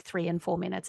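ordinary talk

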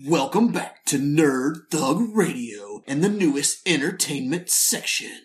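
slow, dramatic trailer announcer; a hint of a trailer narrator; movie trailer voice. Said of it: "Did you like my movie trailer voice?".

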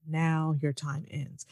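slow, low-key villain threat; mock menacing villain. Retelling the villain's line to Caitlin, slow mock menace. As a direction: drag out the threat slowly. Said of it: "he tells Caitlin".

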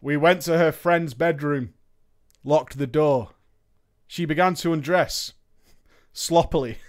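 ordinary talk, nothing marked

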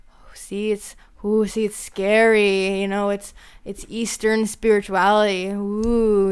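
lightly hammed-up ghostly "ooh"; mock spooky. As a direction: play at scaring people, half in jest. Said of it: "to make it spookier".

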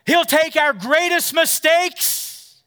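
high, slow, drawn-out preacher line; preaching build. Acted. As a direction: stretch each word to lift the room.

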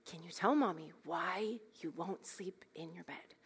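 soft, whispered, anger held back; calm near-whisper. Retold or imitated. Mother asking toddler why she won't sleep, whispered. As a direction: hush it sweetly through clenched patience. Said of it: "with a very calm voice".

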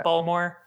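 Baltimore as locals clip it, "Baltimore" squeezed to two syllables; Baltimore pronunciation. Shown as a demonstration. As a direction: say "Baltimore" like a local, bawl-mer. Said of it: "as we call it".

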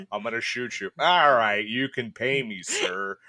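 hammed-up bad American accent; Lance Hunter's American accent. Co-host making fun of a character's bad accent, mock American. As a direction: do a clumsy American accent, mockingly. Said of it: "Except for Lance Hunter's American accent".

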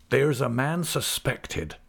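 slow rustic elder's line, grave; slow, grave country dialect; lightly voiced Mister Peggotty. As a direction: lightly play a grave countryman, taking it slowly.

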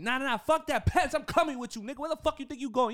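high, loud outraged shouting; mock outraged yell. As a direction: yell after the coworker who is leaving you behind. Imagined yelling at a fleeing coworker.

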